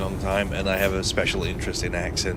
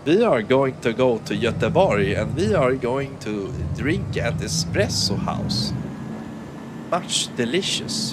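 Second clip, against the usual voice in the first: exaggerated sing-song Swedish accent; slower than usual. Streamer parodies Swedes going to Göteborg, sing-song Swedish accent. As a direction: swing the pitch up and down like a Swede. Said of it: "speaking with the Swedish sort of melody".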